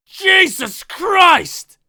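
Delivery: drawn-out high yell; pained, shocked cry. Acted. Writer shot in the ear by his character, shocked yell. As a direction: cry out loud from sudden pain. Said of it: "He cries out in pain and shock".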